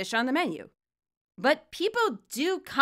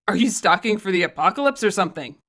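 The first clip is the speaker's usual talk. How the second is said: put-on incredulous teen; 3 semitones lower, faster than usual. Arvin's incredulous quote.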